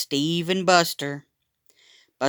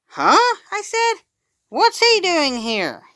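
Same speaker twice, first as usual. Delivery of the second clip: surprised; 14 semitones higher, 5 dB louder, slower than usual. A narrator's reading. Will shocked to see his dog.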